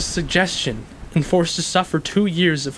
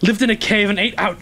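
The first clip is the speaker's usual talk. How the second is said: bitter rising outcry; 6 semitones higher than usual. Acted. Describing prison degradation bitterly.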